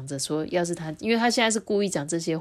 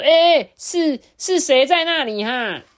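startled shout into the fog; loud startled call; 9 semitones higher, 10 dB louder, slower than usual. Acted. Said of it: "卡兹不由得大叫说".

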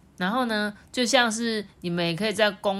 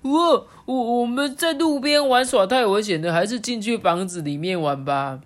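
high frog voice; 4 semitones higher, 5 dB louder than usual. Acted. Frogs talk in story.

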